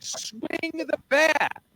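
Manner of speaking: high, very slow yelled Swing the bat; mock fan yell. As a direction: call it down from the top bleachers. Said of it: "he's like yelling stuff".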